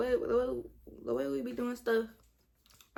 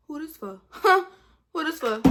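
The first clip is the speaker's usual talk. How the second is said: incredulous reaction; 6 semitones higher, 10 dB louder than usual. Retold or imitated. Acting out reaction to boys.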